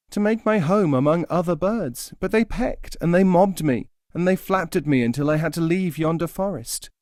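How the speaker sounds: high plaintive bird voice; small and hurt; forlorn nightingale. Acted.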